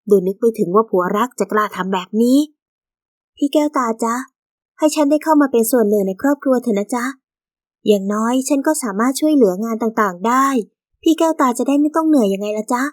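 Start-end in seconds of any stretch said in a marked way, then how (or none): 3.4-12.8 sweet, sugary coaxing; butter her up with every จ๊ะ; fawning. Acted. New minor wife sweet-talks the first wife, fawning. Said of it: "ขวัญเมืองพูดอย่างประจบเอาใจ".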